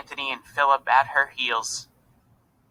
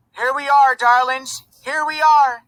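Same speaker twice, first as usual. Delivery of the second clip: high, loud joyful call; excited calling; 12 semitones higher, 6 dB louder than usual. A narrator's reading. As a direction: call to the children with delight. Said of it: "she called".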